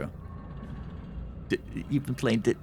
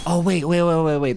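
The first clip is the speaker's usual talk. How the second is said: surprised; 7 semitones higher, 6 dB louder than usual. Real, not acted. Sudden realization while searching.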